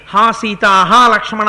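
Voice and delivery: a lightly voiced desperate call; hint of a dying cry imitating Rama; mock cry in Rama's voice. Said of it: "రాముడి కంఠంలా కంఠం పెడదాం".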